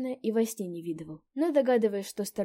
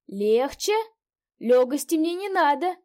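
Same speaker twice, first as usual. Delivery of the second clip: put-on hoarse drunk; 8 semitones higher, 11 dB louder, slower than usual. A narrator's reading. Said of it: "произнёс сиплый голос".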